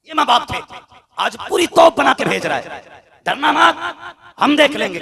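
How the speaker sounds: high, loud scornful preaching cry; mock today's parents loudly; mocking shout. Preacher mocking parents who promise to fight for daughters, shouting.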